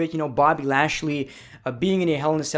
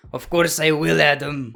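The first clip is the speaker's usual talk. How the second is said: badly faked Drew McIntyre accent; lightly botched accent impression; terrible put-on accent. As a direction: attempt his accent and miss. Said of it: "that was a terrible accent".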